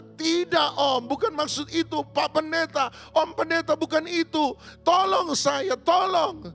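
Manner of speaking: insist, voice climbing to a cry; desperate insisting. Acted. Widow correcting the pastor, pleading desperately.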